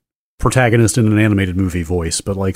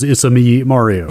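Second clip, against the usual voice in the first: Mario catchphrase. Retold or imitated. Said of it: "the closest that he comes to a grammatically complete sentence is".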